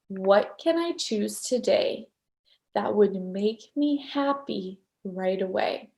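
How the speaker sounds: slow, soft, measured quote; lightly voiced mentor handing over a question slowly; Gary. Imitating her mentor giving advice, calm and deliberate. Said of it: "He said".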